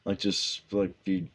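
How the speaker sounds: put-on thick Bronx accent, lightly done; Ace Frehley Bronx accent. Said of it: "talking in his thick Bronx accent".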